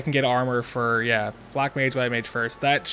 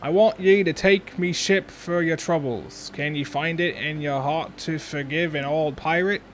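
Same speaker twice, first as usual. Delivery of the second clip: put-on old pirate voice; 3 semitones higher than usual. Defeated pirate begging forgiveness.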